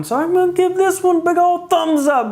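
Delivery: high, bright thumbs-up; excited. Real, not acted. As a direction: lift the voice way up with enthusiasm. Enthusiastic verdict.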